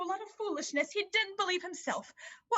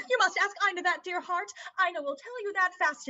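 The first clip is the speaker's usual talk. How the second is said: teasing laugh. Acted. Mother teasing daughter about stork.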